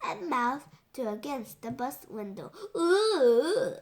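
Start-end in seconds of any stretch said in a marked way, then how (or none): 2.7-3.7 loud, higher swooping "ooh"; silly "ooh". A narrator's reading. Boy clowning at the bus window, goofy hoot.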